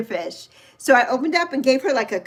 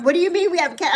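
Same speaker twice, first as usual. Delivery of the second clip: higher-pitched, incredulous mock protest; freaking-out daughter; 5 semitones higher, much faster than usual. Daughter reacting to cat news, mock freak-out. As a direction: imitate a daughter mildly freaking out. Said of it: "My daughter was freaking out".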